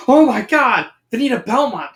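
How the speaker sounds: high, loud starstruck cry; excited shout. Acted. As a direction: shout it on recognising your idol. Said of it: "shouts Daphne".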